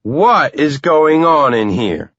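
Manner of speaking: a wife walking in on chaos; exclaiming. A narrator's reading. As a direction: burst in demanding an answer. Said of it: "Tracy exclaims".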